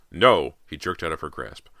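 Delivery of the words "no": loud, urgent father's outburst; sharp refusal. A narrator's reading. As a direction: cut your daughter off loudly. Father jerks away refusing.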